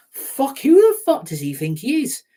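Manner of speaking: high, loud raging yell; furious shout. Real, not acted. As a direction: explode at the owner. Fan raging at club owner.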